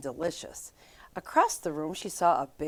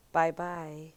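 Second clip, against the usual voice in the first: big gruff voice; 5 dB quieter than usual. A narrator's reading. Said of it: "a big gruff voice".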